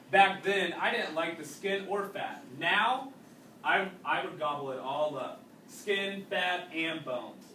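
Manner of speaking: reading a story aloud to a class; unhurried read-aloud narration for students. A narrator's reading. Teacher reading a wartime novel to the class, steady narration.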